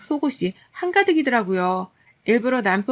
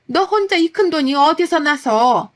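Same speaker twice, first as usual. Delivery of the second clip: higher, louder accusing scold; scolding mother-in-law; 6 semitones higher, 5 dB louder than usual. Retold or imitated. Mother-in-law scolding her daughter-in-law over the money, outraged. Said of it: "저를 나무라기까지 하시더라고요".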